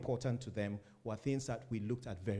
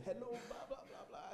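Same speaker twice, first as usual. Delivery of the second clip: imitating phone shouter; 11 semitones higher, 8 dB quieter than usual. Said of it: "someone on the phone ... shouting".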